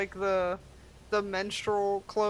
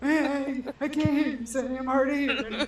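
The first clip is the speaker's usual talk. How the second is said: put-on winded old person; 3 semitones higher than usual. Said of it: "He's winded".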